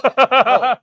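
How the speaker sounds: sudden high loud oh; excited oh. Real, not acted. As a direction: burst out as it comes to mind. Suddenly remembers WNBA news.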